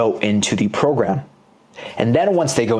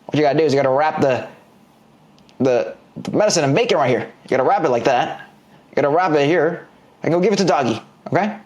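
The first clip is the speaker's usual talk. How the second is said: scolding granny; faster than usual. Acted. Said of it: "And Granny's like".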